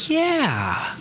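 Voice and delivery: high, lazy mock yeah; mock drawn-out yeah. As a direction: ham up a slow, feeling yeah. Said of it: "my kinesthetics in the room were like".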